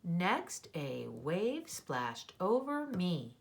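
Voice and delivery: slow read, voice settling to a stop on ME; full-stop intonation. Shown as a demonstration. Teacher checks her next page for punctuation, clear stop on ME. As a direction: read it deliberately and end ME as a finished statement. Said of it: "that was a stop".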